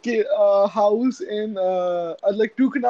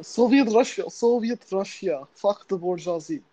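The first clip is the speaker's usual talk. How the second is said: put-on Russian accent; 2 semitones lower than usual. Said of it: "Do your Russian one".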